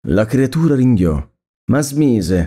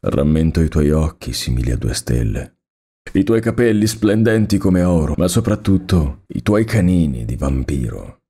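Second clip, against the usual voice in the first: sweet, melancholy; 4 semitones lower than usual. Acted. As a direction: recall her tenderly with a lower, melancholy voice. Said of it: "Con voce dolce e malinconica".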